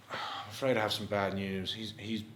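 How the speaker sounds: a low, quiet, grave doctor's voice; lightly voiced doctor. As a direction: deliver the bad news like a sombre doctor. Plays the doctor scene.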